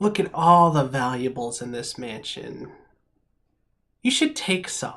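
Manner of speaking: impish, small, devilish character voice. Voicing a little devil's line heard in the comments: little devilish voice. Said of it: "in its little devilish voice".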